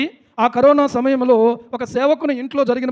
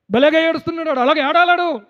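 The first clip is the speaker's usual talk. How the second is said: higher-pitched mild jeer; mocking onlookers; 5 semitones higher than usual. Onlookers remarking on a man crying, mildly mocking. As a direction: imitate people scoffing at someone's tears. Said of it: "కొంతమందికి మనం ఏడ్చినట్టు కనపడితే భలేగా ఏడుస్తున్నాడు అనుకుంటారు".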